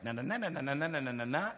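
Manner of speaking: nagging wife. Retold or imitated. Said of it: "if she just goes".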